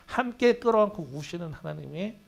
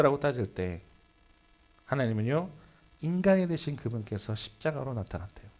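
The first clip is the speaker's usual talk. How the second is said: ordinary delivery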